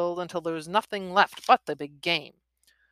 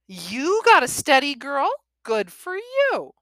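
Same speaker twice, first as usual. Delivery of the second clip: character voice; 9 semitones higher, 7 dB louder than usual. Acted. Billy voiced in story.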